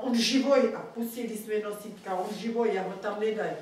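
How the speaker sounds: loud, urgent cry that he is alive; retold pleading shout. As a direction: call out to the drunk guard that the boy lives. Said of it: "Já mu říkám".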